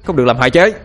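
loud protective cry; shout. Acted. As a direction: shout to stop him.

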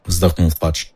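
plain reading voice

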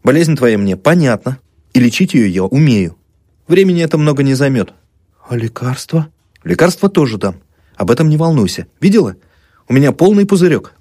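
soothing. Acted. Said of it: "поглаживал и похлопывал её словами".

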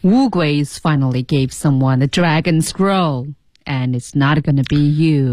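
放慢压低，you 用降调收尾; 低而慢地读，scroll 和 you 往下落. Shown as a demonstration. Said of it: "黑人的那种降调感觉更清晰了". (you 降调，低沉拖慢)

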